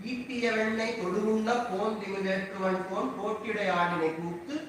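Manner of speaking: Tamil verse rattled off at speed; rapid verse recitation. Acted. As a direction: chant the pasuram fast and even.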